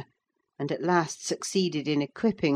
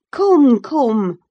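much louder, higher, urgent; firm insistence; 8 semitones higher, 10 dB louder than usual. A narrator's reading. Nurse urging Cathy to come home, firm insistence. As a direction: insist firmly. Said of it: "I repeated".

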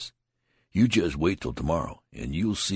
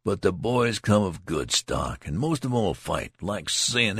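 animated; 6 semitones higher, 4 dB louder than usual. A narrator's reading. Tall soldier expounding.

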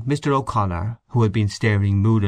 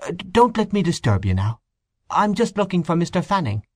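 discreet, indulgent, higher priest voice; velvety voice; 8 semitones higher than usual. A narrator's reading. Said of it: "speaking in a discreet, indulgent, velvety voice".

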